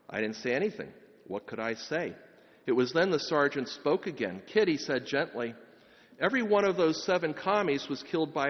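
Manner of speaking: steady reading aloud of a soldier's letter; story reading. A narrator's reading. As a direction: read the letter simply to the congregation. Priest reads a soldier's letter aloud.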